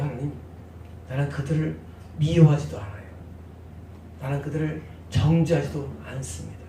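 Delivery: soft, hushed confession to God; voicing David's humble prayer to God, hushed; quiet prayer.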